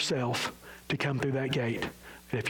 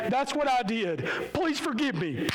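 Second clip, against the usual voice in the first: humble confession; 7 semitones higher than usual. Pretend. Pleading confession at the cross.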